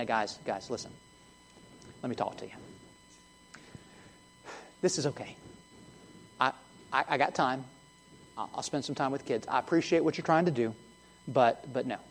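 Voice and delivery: soft, gentle, leaning in close; hushed reassurance to the guys, like a patient friend. Pretend. Jesus leaning in to calm the disciples, soft and gentle. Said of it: "in a gentle and hushed tone".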